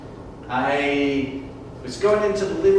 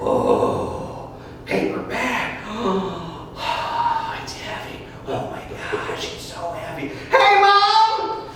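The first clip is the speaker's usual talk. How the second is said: put-on much higher, loud, giddy little kid voice; excited kid; 6 dB louder, slower than usual. Young boy digging in couch, squealing with delight. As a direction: squeal like an eight-year-old finding treasure. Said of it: "I'm like".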